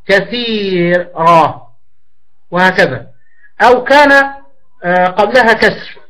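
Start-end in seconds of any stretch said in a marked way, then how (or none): 0.1-1.7 كثيرة stretched very slowly, the ر held light; drawn-out classroom example; very slow example word. Shown as a demonstration. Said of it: "مثل".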